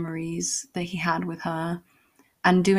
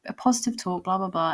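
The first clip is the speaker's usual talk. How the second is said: mock loud talking; 3 semitones higher than usual. He pretends to give her a talk, mock loud voice. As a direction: act out talking up for show. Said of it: "he starts talking loudly".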